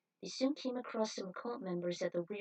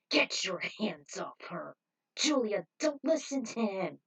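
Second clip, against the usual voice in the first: slow, forceful warning, louder on her name; protective shout; 5 dB louder than usual. Acted. Spike warning the cult leader off Julia, angry.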